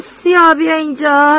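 shouted call across the yard. Retold or imitated. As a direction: call him over from a distance. Calling out to Tom.

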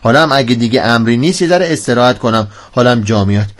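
weary comic man wanting rest; drained by heat. Acted. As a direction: mumble like the heat has beaten you. Character sulks, worn out by heat.

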